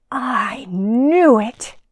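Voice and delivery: hushed, breathy secret whisper. Acted. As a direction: whisper it like a secret only you know. Dog confiding a secret.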